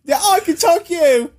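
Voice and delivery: high, hammed-up Cockney pleading; mock Cockney accent. Begging a stranger, high mock Cockney accent. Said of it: "like, a Cockney accent".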